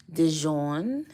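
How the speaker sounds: Dijon with a drawn-out second syllable; relished pronunciation. Real, not acted. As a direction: savor the word Dijon, stretching its ending. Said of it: "I like saying it like that".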